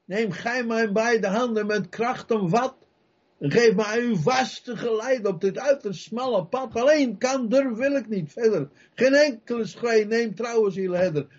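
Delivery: high-pitched, fervent hymn-like plea; pleading recitation. Acted. Preacher praying to his shepherd, pleading. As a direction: recite it as an urgent prayer.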